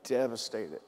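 slow, heavy-hearted, holding back tears; real grief held in, words drawn out; close to tears. Real, not acted. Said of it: "I'm gonna start crying right now".

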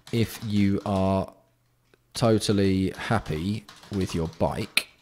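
slow, measured words with gaps; drawn-out dictation of a rule. Real, not acted. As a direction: dictate it slowly as if typing. Dictating a new rule while typing.

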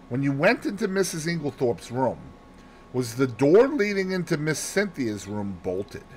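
lightly voiced detective making inquiries; a hint of an inquiring detective; Poirot questioning. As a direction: question a witness methodically.

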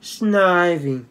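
Snivy said SNY-vee, falling; Snivy as SNY-vee, settling down at the end; correct pronunciation. Shown as a demonstration. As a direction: say Snivy with a long 'eye' first vowel. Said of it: "It's pronounced Snivy".

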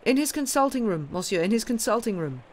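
high called-out directions; shouting after. A narrator's reading. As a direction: shout after someone running upstairs. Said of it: "merely shouting after him".

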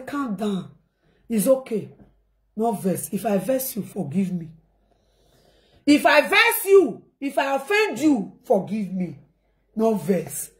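calm her down gently; soothing apology. Retold or imitated. Pleading apology to sister.

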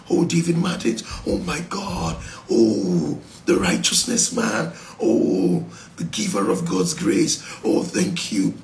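mock-praising worshipper, pitch swinging; hammed-up flattery. Worshipper lightly mock-gushing praise at God. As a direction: gush over him in a lightly put-on voice. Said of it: "That's how you be saying".

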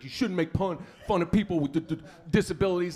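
scolding that catches on "disabilities"; stuttering lecture. Retold or imitated. Comic mimics the husband lecturing him, stuttering. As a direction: lecture with a stammer on the D. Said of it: "he's lecturing me".

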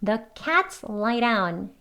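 slow model "lie down" with DOWN starting on a tapped r; "lie down" linked as "lai-raun"; flapped d. Shown as a demonstration. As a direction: tap the d in DOWN like Korean ㄹ. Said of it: "리을로 해서요".

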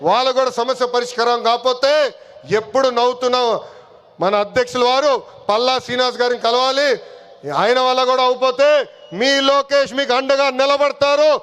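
projected oratory with long pauses; political rally speech. Real, not acted. Party leader addressing the workers at a public meeting, rally oratory. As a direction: address a big crowd, phrase by phrase.

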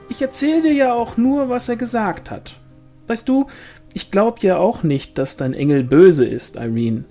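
high, insistent gossip voice; animated, high-voiced village woman; placating sister-in-law. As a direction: protest innocence, then gently scold, pitched high. Pauline argues, voiced in narration.

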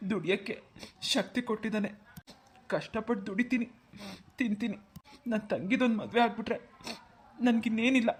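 halting, choked-up confession; subdued, tearful and broken up by pauses. Acted. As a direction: speak through tears, pausing between phrases. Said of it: "ಯಾಕಪ್ಪ ಕಣ್ಣ ನೀರು?".

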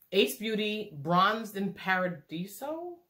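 slow, playful Italian "Paradiso"; trying to be Italian. Pretend. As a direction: draw it out with a mock-Italian ending. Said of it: "I'm trying to be Italian".

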